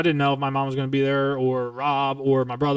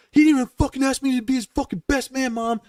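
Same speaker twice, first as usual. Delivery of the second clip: high, pleading complaint to mom; a son's high-pitched protest to his mother; retold outburst; 10 semitones higher than usual. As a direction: whine it up at mom like a wronged son. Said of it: "I remember screaming, not screaming".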